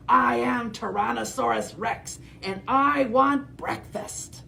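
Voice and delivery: hammed-up dinosaur demanding breakfast; dinosaur cry. T. rex announcing he wants breakfast, mildly hammed up. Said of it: "He cried".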